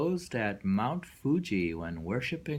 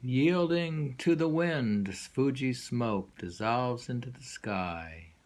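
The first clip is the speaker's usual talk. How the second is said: poem reading; slower than usual. Acted. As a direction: start strong and sink to a whisper on the last line. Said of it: "Read it again".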